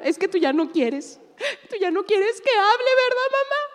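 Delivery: high, whiny mock teenage daughter. Pastor imitating her daughter whining to mom. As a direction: complain like a hurt girl to mom. Daughter voiced in retold scene.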